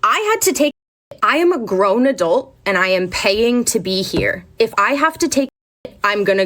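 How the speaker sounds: high-pitched outburst settling into firm insistence; indignant comeback. Retold or imitated. Grown adult standing up to teacher, indignant. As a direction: stand your ground, pitch jumping up. Student arguing back at teacher.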